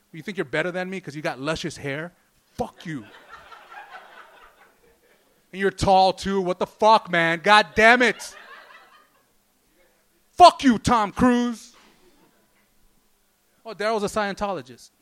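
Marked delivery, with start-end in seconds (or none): 0.1-11.8 mock seething brother, bursting louder at the end; seething rant. Comic imitating Daryl's brother ranting at Tom Cruise, mock furious. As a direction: vent jealous fury in a hammed-up imitation. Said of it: "he just seethes".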